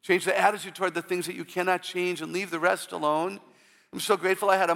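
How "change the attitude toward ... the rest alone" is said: usual speaking voice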